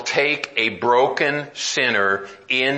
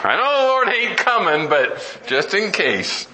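joking aside; 7 semitones higher than usual. Real, not acted. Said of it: "No, I'm just kidding".

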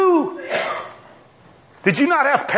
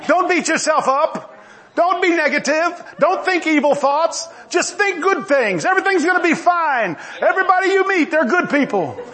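higher, chuckling mock of a cheery TV preacher; Joel Osteen imitation; 6 semitones higher than usual. Preacher mocking a TV evangelist with chuckling mild cheer. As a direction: lightly ham up the feel-good advice. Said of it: "I was trying to do a Joel Osteen imitation".

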